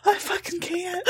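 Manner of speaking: high, wheezing can't; laughed out, barely able to speak; helpless laughter. Real, not acted. Co-host overcome by laughter at the story.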